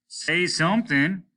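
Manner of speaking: captain urging a dazed officer; cried out. Acted. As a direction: shout to shake him awake. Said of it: "cried the captain".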